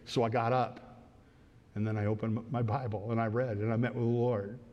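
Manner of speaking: low, soft and tender retelling; imitating a sweet, godly older man; sweetly affectionate. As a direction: speak gently, with quiet love for Jesus. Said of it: "very sweetly, he has an affectional love".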